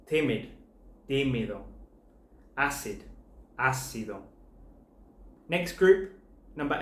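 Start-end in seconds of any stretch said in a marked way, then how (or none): 1.1-1.6 tímido with the beat on TÍ, the last two syllables light; shifted stress. Shown as a demonstration. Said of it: "also have the shift in stress". 3.6-4.2 ácido with the beat on Á, the last two syllables light; shifted stress. Shown as a demonstration. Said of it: "also have the shift in stress".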